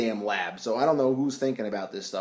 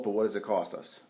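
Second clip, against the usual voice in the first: 1 mock dramatic line; 5 semitones lower, 7 dB quieter than usual. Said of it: "Not dramatic there either".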